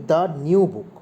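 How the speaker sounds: slow, "the new book" spaced out word by word; slow, clear classroom example; slow teaching example. Shown as a demonstration. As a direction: read "the new book" slowly for students. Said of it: "যদি বলি".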